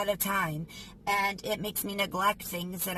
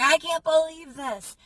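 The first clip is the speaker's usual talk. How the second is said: retold outrage; 8 semitones higher, 6 dB louder than usual. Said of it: "I was real mad".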